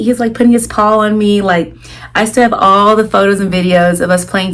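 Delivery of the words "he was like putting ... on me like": ordinary talk, nothing marked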